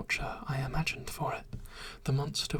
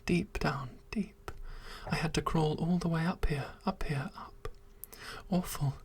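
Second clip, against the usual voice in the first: pleading creature. Acted. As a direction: beg her to understand, breathless with longing. Creature proposing, begging desperately.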